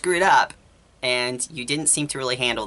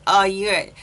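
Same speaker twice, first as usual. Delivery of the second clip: higher, louder whiny imitation; mock whining; 8 semitones higher, 4 dB louder than usual. Mocking the friend's complaint, high whiny imitation. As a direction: parody her self-pitying whine. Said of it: "the whole whining about".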